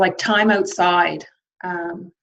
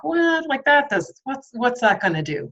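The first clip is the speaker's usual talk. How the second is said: higher, incredulous what; sceptical disbelief; 6 semitones higher than usual. Retold or imitated. Remembering doubting journaling, higher and incredulous. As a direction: scoff at the idea of journaling. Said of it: "and I'm like".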